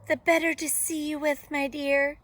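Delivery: high, loud disguised wolf; fake Granny voice. A narrator's reading. Wolf disguised in bed, fake Granny voice. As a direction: keep the pitch up, pushing each word.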